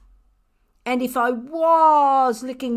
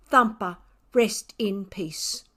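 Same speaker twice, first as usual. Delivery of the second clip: slow hushed whisper of a graveside; reading a gravestone in a hushed whisper. Acted. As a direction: breathe the words like an epitaph.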